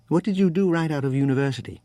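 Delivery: English-tinged seatmate, brisk; California-Brit accent. Acted. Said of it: "California Brit".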